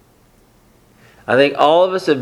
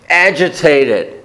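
"agitated" drawn out slowly; slow emphasis; slower than usual. Shown as a demonstration. Preacher lingers on "agitated" for the congregation. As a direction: stretch "agitated" out. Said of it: "and agitated".

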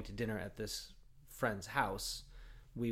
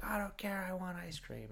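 lightly higher bratty whine; a quieter echo of the spoiled son; spoiled kid voice; 9 semitones higher, 4 dB quieter than usual. Retold or imitated. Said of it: "and he's like".

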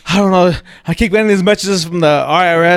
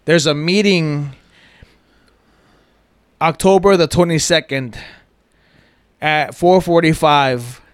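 reading a fake message. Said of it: "this quote unquote computer generated message".

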